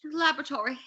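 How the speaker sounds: answering from a daze; dazed, barely audible. Acted. Dazed after finding father dead.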